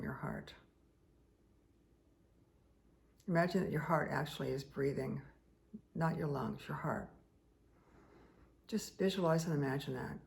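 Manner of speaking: calm guiding voice with long pauses; guided meditation. Real, not acted. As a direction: ease them into a heart-breathing visualization, leaving space between phrases. Leads breathing visualization exercise.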